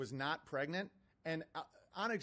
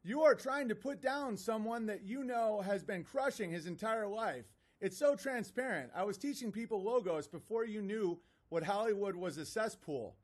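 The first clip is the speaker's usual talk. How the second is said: lightly higher mock-indignant read; mocking email reading; 5 semitones higher than usual. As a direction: read his boasts to ridicule them. Reads the critic's email mockingly.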